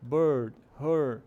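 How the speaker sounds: BIRD and HER on a strong, held "er"; stressed R-vowel. Shown as a demonstration. Teacher showing where the emphasis is, stressed R-vowel. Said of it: "é onde tá a ênfase".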